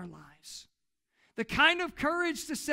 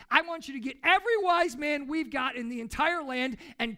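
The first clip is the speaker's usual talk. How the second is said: angry royal command; 3 semitones higher, 5 dB louder than usual. Retold or imitated. Furious king orders executions.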